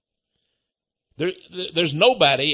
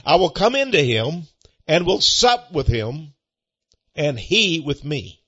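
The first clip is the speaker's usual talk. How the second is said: scripture reading; 3 dB louder than usual. Acted. Scripture continued.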